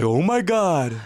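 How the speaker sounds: high-pitched put-on K-Town accent; K-Town Korean accent. Shown as a demonstration. K-Town church kid among teens, high Korean-American accent. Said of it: "that's a K-Town dude who goes to church".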